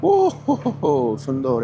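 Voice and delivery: excited whoop. Real, not acted. Thrilled by smooth scooter ride.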